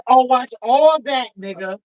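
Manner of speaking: drawn out with delight; excited. Real, not acted. Excited outburst over All That.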